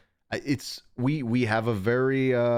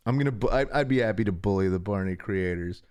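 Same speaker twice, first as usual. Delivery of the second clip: ordinary talk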